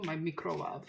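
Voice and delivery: lightly imitating Nigella Lawson, "microwave" said as "mee-crow-wah"; Nigella Lawson pronunciation. Vlogger copying Nigella Lawson's "microwave" as "mee-crow-wah". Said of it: "Did you hear Nigella Lawson say that before?".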